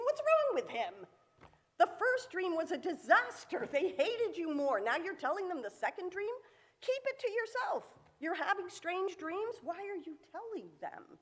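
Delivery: put-on like shaking your head at a foolish kid; exasperated disbelief. Reader scolding Joseph for telling the dreams, exasperated.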